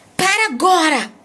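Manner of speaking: emphatic, forceful, high-pitched exclamation. Teaching how an exclamation carries emotion and energy: forceful exclamation. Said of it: "eu exclamei. Pô, um sentimento, uma, uma vibe. Tem uma energia ali".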